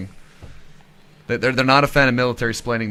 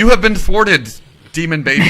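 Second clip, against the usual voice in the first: mock villain shout; 5 semitones higher, 9 dB louder than usual. Mock triumph over doll.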